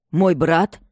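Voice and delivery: Regina hearing of her brother, lightly alarmed; alarmed exclamation. A narrator's reading. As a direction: catch the dread in it. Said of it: "воскликнула Регина".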